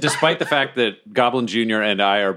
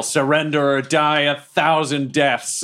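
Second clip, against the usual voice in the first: slow, heavy threat, only mildly raised; booming threat; 4 semitones higher, slower than usual. Acted. Player threatening a foe he grabs, slow mock-booming threat. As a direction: draw out the threat with mock menace. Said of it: "And I yell".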